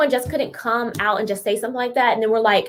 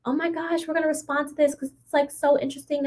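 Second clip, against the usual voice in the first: higher, softer mocking quote; mock fascination; 3 semitones higher, 5 dB quieter than usual. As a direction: imitate gushing people in a small high voice. Mimics people reacting to a rapper.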